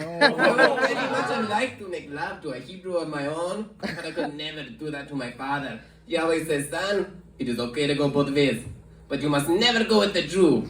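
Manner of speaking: Russian man confiding his regret; mock-solemn Russian suitor passing on fatherly advice; Russian accent. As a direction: explain apologetically in a Russian accent. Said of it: "that's what Russian people sound like".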